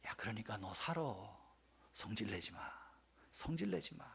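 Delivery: soft and tender, almost hushed. Retold or imitated. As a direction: coax him quietly, like a father soothing a child. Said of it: "하나님이 웃으시면서 하는 말씀".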